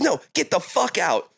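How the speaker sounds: a hint of the panicked friend; buddy kicking them out. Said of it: "And he's like".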